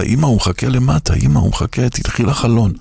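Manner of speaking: mildly urge, as an imitated little girl; insistent child. Little girl telling mother the rabbi waits downstairs, lightly acted insistence.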